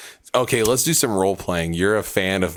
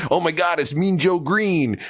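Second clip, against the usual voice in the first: put-on starstruck kid; 9 semitones higher than usual. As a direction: gasp like a kid meeting his hero. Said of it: "the kid goes and he's like".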